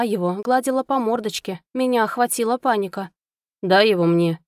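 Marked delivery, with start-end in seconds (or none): 3.6-4.4 demanding. Acted. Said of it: "потребовал Ричард".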